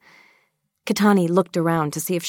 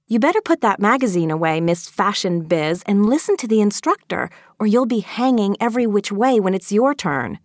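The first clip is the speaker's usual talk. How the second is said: higher-pitched, bossy telling-off; scolding girl, pitched up; serious warning; 3 semitones higher than usual. Acted. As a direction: warn a friend sternly. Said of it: "warned a suddenly serious Maeve".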